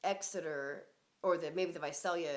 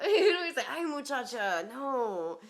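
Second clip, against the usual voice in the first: high laughing quote, louder; 7 semitones higher, 9 dB louder, slower than usual. Retold or imitated. Laughing while quoting her friend's ay muchacha.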